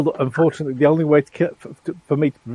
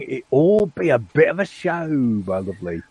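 put-on pirate accent. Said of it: "the cat in Bang Bang".

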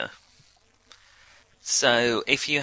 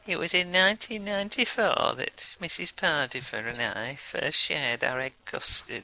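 a touch of dry Yorkshire storytelling; Alan Bennett; 3 semitones higher, 4 dB quieter than usual. Pretend. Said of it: "me doing an Alan Bennett impression".

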